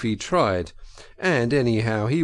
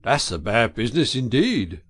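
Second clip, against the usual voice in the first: reflective; 3 dB louder than usual. A narrator's reading.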